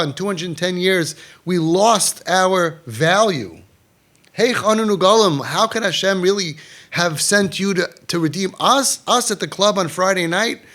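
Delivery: a hint of desperate young people asking how they could be redeemed; pleading youths. Lightly voiced youths asking the rabbi how they could be redeemed, pleading. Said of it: "Their question was".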